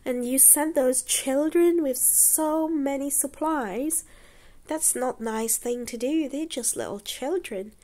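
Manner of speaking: a wife telling off her husband, lightly acted; scolding. Wife scolding her husband over the children, high and reproachful. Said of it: "his wife scolded him".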